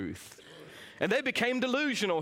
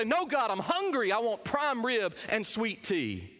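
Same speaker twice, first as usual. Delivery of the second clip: higher, petulant No, God; hammed-up brat throwing it back; mock spoiled demand; 4 semitones higher than usual. Preacher mocking the ungrateful, bratty demand. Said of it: "throw it back in his face and say".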